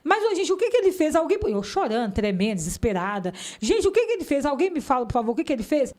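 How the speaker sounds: high, pleading, crying out to the police; desperate pleading. Retold or imitated. Wife begging the police to say what her husband did, desperate. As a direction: beg for an answer, frantic and tearful. Eu chorando, tremendo, desesperada.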